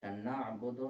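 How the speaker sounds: नअबुदु with an ऐन from the throat; ain sound. Shown as a demonstration. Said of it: "ना पे आइन है". (गले से ऐन वाला ना)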